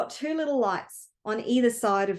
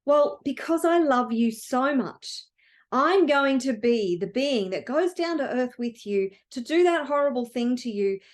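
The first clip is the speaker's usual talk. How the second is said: quiet and tender. Acted. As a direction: offer it softly out of love. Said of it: "been quiet the whole time".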